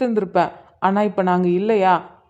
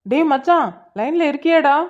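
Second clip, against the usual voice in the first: raised, higher-pitched phone check; calling out; 5 semitones higher than usual. Acted. Friend checking his mate is still on the line, calling out. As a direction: call out to a silent caller.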